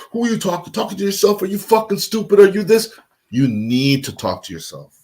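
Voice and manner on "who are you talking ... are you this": high, taunting inner voice; mocking ego voice. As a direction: sneer like your own ego. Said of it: "your ego will interfere".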